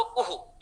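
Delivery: उहु with the u echoed after h; visarga echo sound. Shown as a demonstration. Teacher showing the sound heard in guruh, उहु with echoed u. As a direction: repeat the u through the breath in उहु. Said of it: "इस प्रकार की ध्वनि ही".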